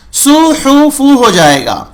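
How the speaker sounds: سو حوف said with a thin light s as the error; light s mistake. Shown as a demonstration. Teacher shows the wrong light pronunciation. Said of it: "تھوڑا سا light لیں گے تو یہ سین".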